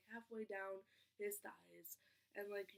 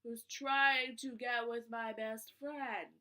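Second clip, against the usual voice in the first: exasperated; 8 dB louder, slower than usual. Retold or imitated. Exasperated at the worker.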